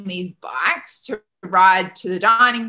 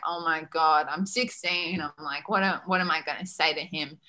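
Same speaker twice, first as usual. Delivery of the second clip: softer, subdued retold worry; quiet dread; 3 semitones lower, 6 dB quieter than usual. Sixteen-year-old dreads facing the head coach, quietly. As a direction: voice sinking as the worry lands.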